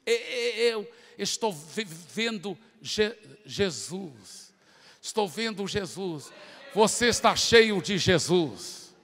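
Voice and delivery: halting, slow, broken words; stammering demon. Retold or imitated. Demon stammering to the preacher that it sees Jesus. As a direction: stutter out each word in fear. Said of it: "gaguejando ainda naquela voz masculina".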